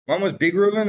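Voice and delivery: lightly voiced big one; big Reuven voice. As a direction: puff up the word big a little. Naming the two Reuvens.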